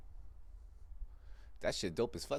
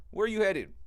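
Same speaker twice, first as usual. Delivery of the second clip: mock shout; 8 semitones higher, 4 dB louder than usual. Mocking people asking.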